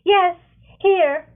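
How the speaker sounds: loud, high answer; calling back. Acted. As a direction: call out your presence. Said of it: "Cascara answers".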